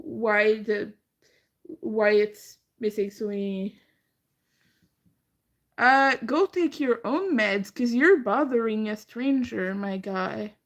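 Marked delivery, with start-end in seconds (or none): 5.8-10.6 louder, telling off a chat troll; annoyed retort. Real, not acted. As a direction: snap back at a rude commenter.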